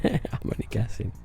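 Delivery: a modest laugh through the words. Retold or imitated. Laughing it off to the amazed customer. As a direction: chuckle it off as just a guess.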